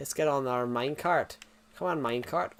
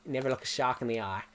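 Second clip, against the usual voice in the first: put-on Australian accent; 3 semitones lower than usual. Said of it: "my Australian accent".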